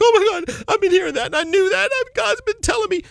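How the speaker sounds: high, overcome with amazement; amazed outcry. Retold or imitated. Listener hears the message at last, high amazed outcry. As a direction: act out someone astonished, voice way up. Retells the person's amazed reaction.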